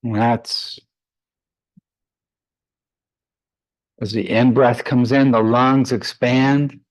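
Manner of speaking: measured meditation guidance with long pauses; guided meditation. Real, not acted. Yoga teacher leading students into breath practice, guided meditation voice. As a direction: guide them calmly through the breath, leaving space between phrases.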